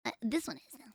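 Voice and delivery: whisper. Real, not acted. Streamer hushes before next clip.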